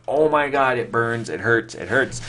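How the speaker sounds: hammed-up pain as the scalp burns; mock panic. Boy retells chemical burn on his scalp, mock panic. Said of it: "I'm, like, freaking out".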